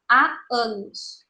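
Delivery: "Há anos" slowly, the two A vowels linked; junção de vogais. Shown as a demonstration. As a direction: show the A meeting A in "Há anos". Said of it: "junção de duas vogais A". ("Há anos" devagar, ligando os dois As)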